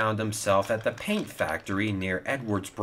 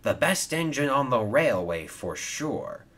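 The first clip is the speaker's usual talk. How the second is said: proud boast, pitched up; mildly boastful claim; 4 semitones higher than usual. Acted. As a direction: brag on a friend's behalf. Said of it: "boasted Hero".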